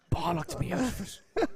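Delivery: high, slow mock Cockney; hammed-up Cockney complaint; Cockney accent. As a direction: drag it out in a put-on East End Cockney voice. Retelling wife's telling-off in accent.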